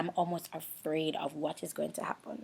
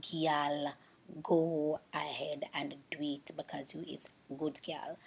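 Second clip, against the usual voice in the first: self pep talk; 4 semitones lower, 3 dB quieter, slower than usual. Retold or imitated. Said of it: "Some days I'm like".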